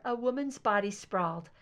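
ordinary delivery, nothing marked

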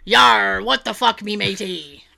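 lightly hammed pirate growl. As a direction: do a mock pirate. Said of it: "my pirate".

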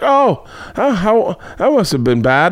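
high mock sympathetic mom. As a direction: coo it with fake concern. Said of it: "she was like".

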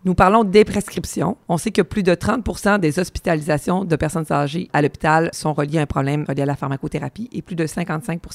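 raspy, worn-out voice; hoarse voice. Real, not acted. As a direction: speak through a hoarse throat. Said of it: "ma voix éraillée aujourd'hui".

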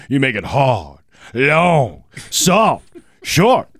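high spoken soul song intro; soul singer spiel. Retold or imitated. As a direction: talk the lyrics like a soul singer. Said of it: "You got any more of that singer's lyrics".

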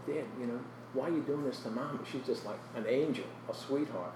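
soft appeal to a father; subdued, hurt question to Dad; quiet retold plea. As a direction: plead gently, as if remembering childhood.

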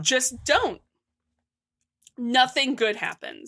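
mouth full. Real, not acted. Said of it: "I got food in my mouth now".

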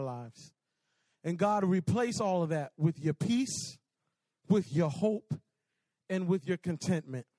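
measured, subdued prayer voice; closing prayer. Real, not acted. Preacher praying over students with bowed heads, measured prayer. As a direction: pray it in unhurried phrases with pauses.

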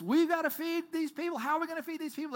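high, strained panicky voice; anxious disciples. Retold or imitated. Anxious disciples panicking over the hungry crowd, high strained voice. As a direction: fret out loud in panic. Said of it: "They're so anxious".

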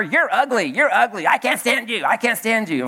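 lightly acted parrot tirade; mock yelling parrot. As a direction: play a scolding parrot without really shouting. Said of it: "he's yelling at her".

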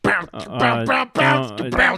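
high, loud squeaky panic; high panicked villain. Acted. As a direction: squeal the plea. Reading a villain's panicked line.

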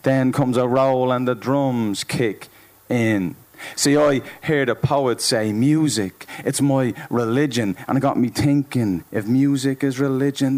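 rhythmic performance poem, pitch climbing as it builds; spoken-word poetry. Acted. Poet telling of music as religion, rhythmic spoken word. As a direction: ride the beat like a slam poet.

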